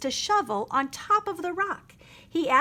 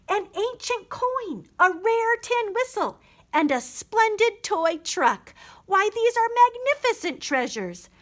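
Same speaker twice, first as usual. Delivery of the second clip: marveling; 9 semitones higher than usual. A narrator's reading. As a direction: savour each treasure. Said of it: "he marveled".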